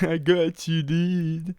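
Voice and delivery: high-pitched hammed-up hype; mock excited cry. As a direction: squeal it through the tail of a laugh. Same mock announcement after laughing.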